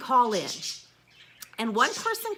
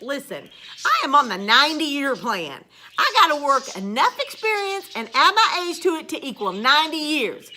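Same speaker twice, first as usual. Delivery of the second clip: talking through laughter, louder; amused laughing rant; 6 dB louder than usual. Real, not acted. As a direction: laugh it off while complaining. Laughing about retirement.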